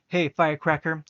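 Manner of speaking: loud bark of a nickname. Acted. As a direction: snap it out loudly. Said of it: "he barked".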